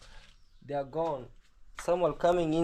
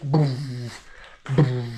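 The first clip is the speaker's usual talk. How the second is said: booming imitation of loud music; imitated bass boom; 2 semitones lower, 3 dB louder than usual. Party girl missing her big music, imitated bass boom.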